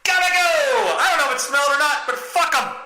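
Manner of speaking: shrill-free high yelp, fast; high excited escape cry; high panicked exit. Retold or imitated. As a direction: bolt out of there in a rush. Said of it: "and I go".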